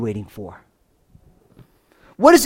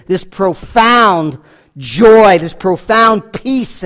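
slow profound; much slower than usual. Real, not acted.

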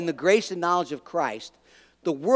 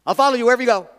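eager vow, blurted out, a bit higher and louder; 4 semitones higher, 5 dB louder, much faster than usual. Retold or imitated. Preacher voices the scribe blurting out his eager vow. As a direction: toss the promise off eagerly without thinking. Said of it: "he just blurted it out".

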